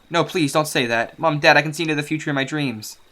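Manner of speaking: put-on pleading girl. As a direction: beg them not to say it. Daughter begs parents.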